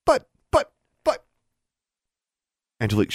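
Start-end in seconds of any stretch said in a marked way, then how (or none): 0.0-1.2 put-on very high stuttering child; high, halting little-girl protest. A narrator's reading. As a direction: stammer each word separately in protest. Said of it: "with Innocence stuttering".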